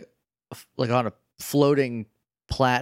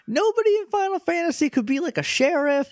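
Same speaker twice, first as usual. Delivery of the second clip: high, giggling disbelief; can barely get it out for laughing; 10 semitones higher than usual. Real, not acted. Laughing at the absurd idea.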